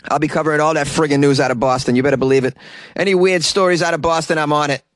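put-on full force Boston accent; heavy Boston newsman. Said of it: "Going full force with my accent".

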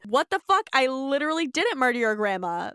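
high-pitched opening, hammed-up protest; mock indignant denial. Carly denying she murdered grandma, mock indignant. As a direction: protest your innocence in mock outrage. Acted quarrel between show characters.

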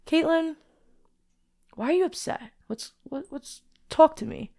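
soft, halting plea to oneself; earnest self-questioning. Retold or imitated. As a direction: ask yourself seriously, gently, with pauses. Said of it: "let me take her serious".

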